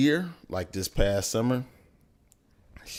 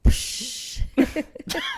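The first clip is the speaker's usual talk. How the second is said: high burst of surprised laughter; loud laugh; 8 dB louder than usual. Real, not acted.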